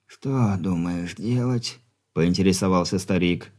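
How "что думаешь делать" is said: put-on much softer frail old man; weak stern dying father.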